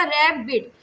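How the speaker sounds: "रैप बीट" in two separate beats; split into syllables. Shown as a demonstration. Teacher showing students the two syllables, "रैप बीट" said in parts. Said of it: "रैप एक syllable".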